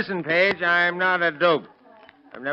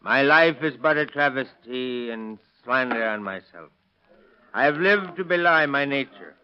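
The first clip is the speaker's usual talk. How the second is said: recitation. Acted. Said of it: "How'd you like to hear me recite".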